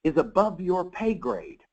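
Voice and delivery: slow it way down like a wise mother settling it; mom's slow verdict. Retold or imitated. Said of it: "And she goes".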